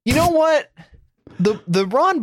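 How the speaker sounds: high, words broken by laughter; laughing. Real, not acted. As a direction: laugh while you swear. Overwhelmed by the video clip.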